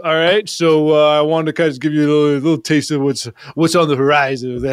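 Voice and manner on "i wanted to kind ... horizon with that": talking with a swollen tongue; thick-tongued, words a bit mushy. Real, not acted. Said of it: "Is your tongue swollen".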